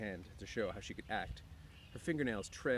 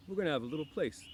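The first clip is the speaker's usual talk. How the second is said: patient Lenny; 7 semitones higher, 6 dB louder than usual. A narrator's reading. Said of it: "Lenny explained patiently".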